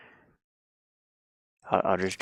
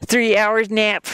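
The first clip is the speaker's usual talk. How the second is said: exclaimed; 12 semitones higher, 5 dB louder, slower than usual. Real, not acted. Reading chat comment aloud.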